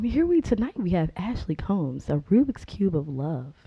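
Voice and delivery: lightly hammed-up host introduction; mock stage announcer. Host introduces tonight's act, mock announcer voice.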